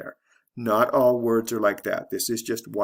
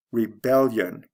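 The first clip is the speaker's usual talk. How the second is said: "Rebellion" stressed re-BEL-lion; stress before the ending. Shown as a demonstration. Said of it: "the stress changes in the same way".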